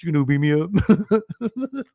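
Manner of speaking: slow, taunting dare in a put-on voice; mock challenge. Taunting the offended coworker, slow and teasing. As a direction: dare him, drawn out and teasing. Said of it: "I said".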